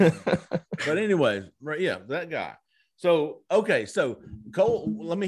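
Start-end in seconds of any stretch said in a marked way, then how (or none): 0.0-1.5 slow, laughing words; giggling as the laugh fades; stifled giggles. Real, not acted. Recovering after laughing.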